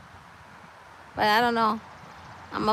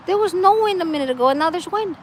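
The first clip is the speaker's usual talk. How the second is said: surprised exclaim; 5 semitones higher, faster than usual. Real, not acted. Surprised by sudden wind.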